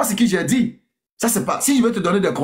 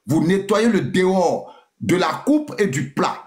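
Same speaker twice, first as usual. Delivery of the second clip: lecture solennelle; slower than usual. Acted. Lit un verset biblique à voix haute.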